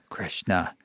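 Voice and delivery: low and soft, said simply; quiet. Retold or imitated. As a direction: say the name softly, low. Guru answers softly.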